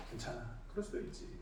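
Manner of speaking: very soft, barely voiced reassurance; 너그럽게 기다려주는 말. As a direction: let it go gently, almost under the breath. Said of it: "기다려줍니다". (아주 작고 너그럽게)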